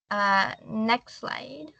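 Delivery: slow, breathy aside under her breath; whispered aside. Real, not acted. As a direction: murmur it off-mic to the helper. Aside to whoever changes slides.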